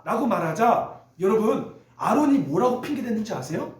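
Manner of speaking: usual speaking voice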